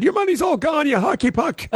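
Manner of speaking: high, mocking insult-comic jab; Don Rickles impression. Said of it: "took the phone out of one rep's hand and said".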